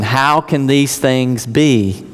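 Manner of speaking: slow, puzzled asking; mild bewildered Nicodemus; baffled question. Acted. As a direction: drag it out like a man who can't grasp it.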